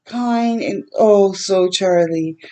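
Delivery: real tears welling as she reads; moved reader fighting tears; tearful. Real, not acted.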